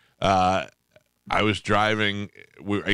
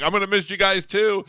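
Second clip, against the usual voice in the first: high, sing-song goodbye; leaving friends at gas station, high sentimental goodbye; mock sentimental farewell; 11 semitones higher, 3 dB louder than usual. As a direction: call it out sweetly while waving. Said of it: "I'm like".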